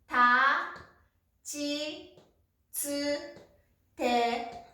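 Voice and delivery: た、ち、つ、て、と each said alone with pauses; syllable by syllable. Shown as a demonstration. Teacher modelling ta-row kana for students, slow and spaced. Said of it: "Tの音は、".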